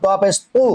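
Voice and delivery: "তু" with a heavy, dark t; thick t. Shown as a demonstration. Teacher repeats for learners, thick heavy t. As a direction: fatten the "ত" of "তু". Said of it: "মোটা করে উচ্চারণ হবে".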